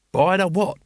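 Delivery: high, gripped and horrified question; horrified fascination. Acted. Nobby asks Carrot about the punishment, horrified and fascinated. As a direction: lean in, appalled but hooked. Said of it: "he said in horrified fascination".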